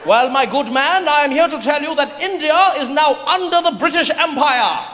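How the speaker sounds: pompous colonial declaration; grand rich voice. Acted. British officer declares rule.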